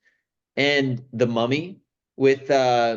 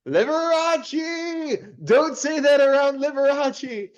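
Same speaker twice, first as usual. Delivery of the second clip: far higher, very slow shocked cry; mock Vincent Price; 14 semitones higher, slower than usual. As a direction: ham up a scandalised old host. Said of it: "Vincent Price keeps going".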